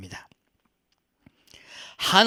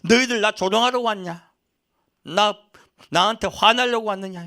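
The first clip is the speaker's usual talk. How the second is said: indignant, raised-pitch challenge; Job; 6 semitones higher, 5 dB louder than usual. Acted. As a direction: confront the mockers, louder and higher. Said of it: "욥이 뭐라고 합니까".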